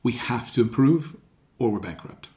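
grounded and firm, dropping at the end; voice of authority. Shown as a demonstration. Boss telling the team they face bankruptcy, grounded authority. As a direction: tell it gravely, without raising the voice. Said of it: "complete voice of authority".

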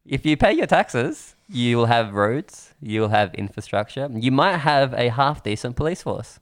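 slow, emphatic public scolding; mock lecture. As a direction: spell it out slowly for the taxpayers. Mock lecture to Greek friends.

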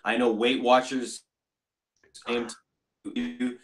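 bad connection. Real, not acted. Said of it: "your sound has completely gone off the radar".

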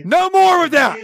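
high, fed-up protest; exasperated protest. Real, not acted. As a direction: demand that the noise stop. Protesting over the played jingle.

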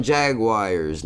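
Jaguars said his own nonstandard way; own odd pronunciation. Real, not acted. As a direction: say "Jaguars" stubbornly in the nonstandard "Jagwires" way. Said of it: "I know that's not how you say it".

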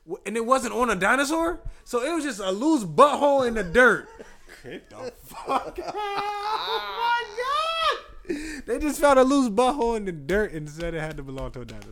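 loud, high, laughing disbelief. Real, not acted. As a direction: shout it through laughter, cracking up.

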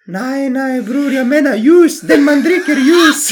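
high, insistent mock classmate voice; imitating the classmate. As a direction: push the word ljus up, near laughing. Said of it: "jag måste göra hans röst då".

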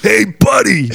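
high, loud Eastern European granny voice; hammed-up Eastern European accent. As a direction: call out as the tiny Eastern European lady. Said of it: "the small Eastern European woman".

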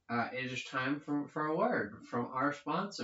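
lightly voiced old radio announcer; hint of a fifties sponsor read; 1950s announcer. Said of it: "'cause I'm a nineteen fifties announcer".

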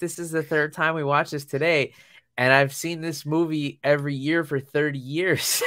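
retold fed-up dad; mock protest. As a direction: complain in playful disbelief. Retold weary protest to daughter.

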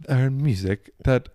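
talking through a burp; words pushed out mid burp. Real, not acted. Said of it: "I'm like mid burp".

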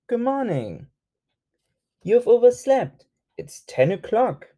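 bright high wake-up call; chirpy alarm clock. Acted. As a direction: cheerfully wake a sleeper. Alarm clock speaking to Croc.

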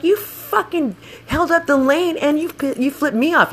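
re-enacted high-pitched outrage; retold screaming match. Scooter rider yelling back at passenger, retold outrage. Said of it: "we're just screaming at each other".

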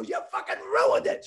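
high, loud mock complaint; retold exasperated outburst. Drinker recognised at a free bar, acted exasperated shout. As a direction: cry out as if the fun is spoiled.

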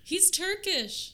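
mock Cockney. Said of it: "talks like Jason Statham".

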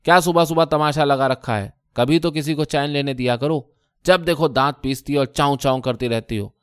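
mild roar, loudest at the start; a scolding husband bellowing. Acted. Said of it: "پوری طاقت سے دہاڑے".

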